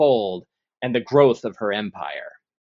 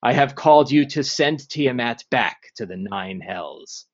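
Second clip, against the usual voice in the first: ancient rasping undead king; 2 semitones lower than usual. Acted. DM voices the lich Zastam.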